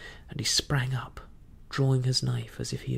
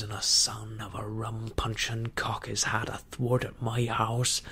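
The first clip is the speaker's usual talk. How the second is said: put-on menacing old pirate Silver. Silver taunts the crew.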